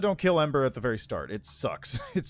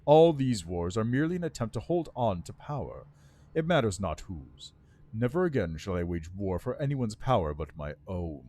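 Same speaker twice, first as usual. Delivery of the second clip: lightly voiced bitter undead lord; resentful lich, words held tight; 4 semitones lower than usual. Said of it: "Grinding his teeth, the Lich answers".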